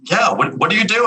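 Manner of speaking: perplexed. Retold or imitated. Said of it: "kinda perplexed".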